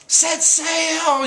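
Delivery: high-pitched imitation yell; Luffy. Luffy yelling to his crew to sail, acted high shout. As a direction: call it out big and high, acting the captain. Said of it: "drawing in his breath to yell".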